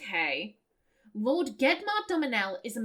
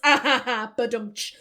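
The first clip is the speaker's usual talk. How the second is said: loud hammed-up ha ha ha, then a rimshot; mock laugh; 3 semitones lower, 6 dB louder than usual. The speaker mocking the kids with a fake laugh. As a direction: laugh at your own joke like a bad comedian. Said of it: "we could say something clever".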